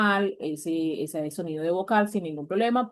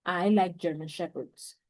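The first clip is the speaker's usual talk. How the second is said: very slow, careful English read for students; teacher reading out an English example slowly; slow model sentence; much slower than usual. Shown as a demonstration. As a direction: dictate the English example word by word. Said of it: "Entonces yo puedo decir".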